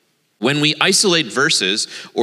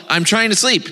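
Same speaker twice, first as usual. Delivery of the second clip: high-pitched mock complaint; mild calling out; 7 semitones higher than usual. A narrator's reading. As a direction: call it out higher, as a woken sleeper. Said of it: "he called".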